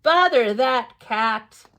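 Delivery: slow, drawn-out mock grumble; a touch of exasperation. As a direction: sing the refrain with fake annoyance. Repeated grumble refrain.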